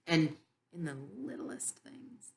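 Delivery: soft breathy whisper. Real, not acted. Whispering to the listeners about God's littlest gifts. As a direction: drop to an intimate whisper. Hushed emphasis on small gifts.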